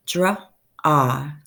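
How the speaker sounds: dra-ah, the ah held; segmented word. Shown as a demonstration. Teacher sounding out "Dra-ah" to the class. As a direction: stretch "Dra-ah" on the vowel. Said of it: "ah sound".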